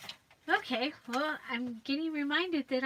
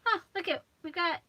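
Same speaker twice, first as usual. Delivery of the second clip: surprised; 6 semitones higher, 7 dB louder, faster than usual. Real, not acted. Finds washi tape.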